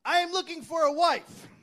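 high, loud pompous suitor voice; Charles voice. Retold or imitated. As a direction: read it like a grand old ad. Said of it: "You got your Charles voice on again".

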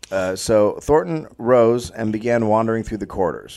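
measured, read-aloud storyteller delivery; story narration. A narrator's reading. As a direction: narrate the tale from the page.

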